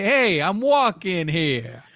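slow, drawn-out New York tough-guy line; mock New York accent. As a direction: play a Bronx pedestrian standing his ground. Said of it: "And with a New York accent, too".

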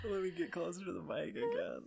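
far from mic. Real, not acted. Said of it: "Corey's been, like, three feet away from the mic".

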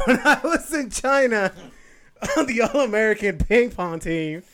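helium voice. Acted. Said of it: "Forrest Gump".

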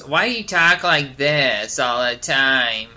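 slow, exaggerated mimicry; mock someone's way of talking, drawn out; mocking imitation. Girl in the Jeep mocking his talk, mocking imitation. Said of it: "she goes".

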